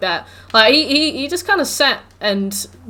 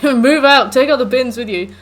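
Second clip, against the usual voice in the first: louder and higher, a hammed-up nagging parent; mock nagging parent; 3 semitones higher, 6 dB louder than usual. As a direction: bark "move out" like a fed-up parent. Parents nagging son to leave.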